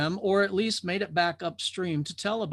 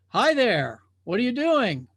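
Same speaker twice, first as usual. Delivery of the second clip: curious drifter; 6 semitones higher, 4 dB louder than usual. Acted. Drifter greets the old watcher.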